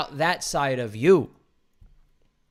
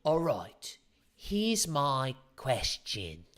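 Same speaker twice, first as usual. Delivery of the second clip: slow, drawn-out mock suspense line; mocking coach; 6 dB quieter, much slower than usual. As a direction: parody a cheesy dating coach, dragging it out. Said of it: "without having to go".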